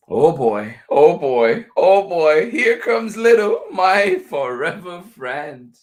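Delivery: high, loud, gleeful greeting; thrilled storybook dog, voice climbing; excited dog. A narrator's reading. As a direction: burst out with rising excitement as your best friend arrives. Dog narrator greets arriving friend.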